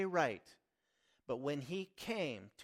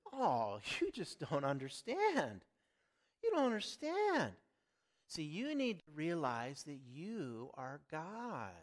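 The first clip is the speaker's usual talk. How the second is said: lightly acted patronizing friend; friend's voice. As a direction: act out the friend explaining, with swooping pitch. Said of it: "And her friend says".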